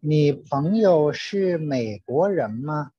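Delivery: ordinary talk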